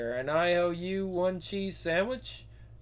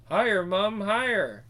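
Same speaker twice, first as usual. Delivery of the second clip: put-on excited child; 3 semitones higher than usual. Child on swing calling out.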